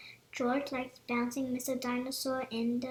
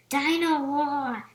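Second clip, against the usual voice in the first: slow, loud little piglet voice; George piglet voice; 8 dB louder, slower than usual. A narrator's reading. George repeating the toy's name, slow piglet voice. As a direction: savour the name like a toddler.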